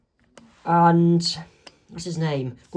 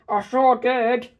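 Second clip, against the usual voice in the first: higher, slow put-on gloat; gloating villain; 6 semitones higher, slower than usual. Bill brags to Gideon about tricking Dipper, slow and gloating. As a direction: savour the trick, slowly.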